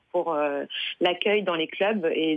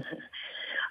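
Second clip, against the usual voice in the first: very quiet, breathy little laugh; brief hushed laugh; soft chuckle; 12 dB quieter than usual. Real, not acted. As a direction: chuckle lightly before answering. Laughs before answering question.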